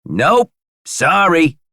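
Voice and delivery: very high, loud, drawn-out words; squeaky character reply. A narrator's reading. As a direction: chirp it slowly in a tiny high voice. Buddy replies in character voice.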